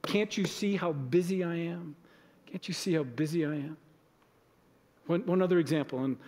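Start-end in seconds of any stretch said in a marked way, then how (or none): 0.0-3.8 mock irritated brush-off. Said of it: "push against".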